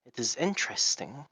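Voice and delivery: put-on lizard accent. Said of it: "doing a lizard accent".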